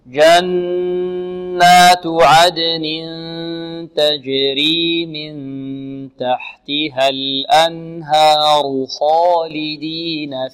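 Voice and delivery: slow, drawn-out melodic recitation; Quran recitation. Shown as a demonstration. Teacher models the verse slowly for the student to repeat.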